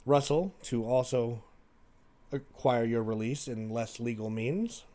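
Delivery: measured letter reading with pauses; reading letter aloud. Acted. Sister's letter to her jailed sibling, read aloud.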